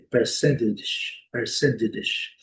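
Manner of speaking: percentage with T softened to D: per-SEN-didge. Shown as a demonstration. Teacher shows a variant that works, T as D. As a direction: say percentage with a D in place of T. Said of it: "podem colocar um D aqui".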